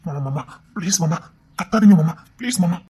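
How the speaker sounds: urgent begging; pleading. Acted. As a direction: implore uncle to stop yelling. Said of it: "என் அண்ணன் கெஞ்சிக்கிட்டு இருக்காண்டி".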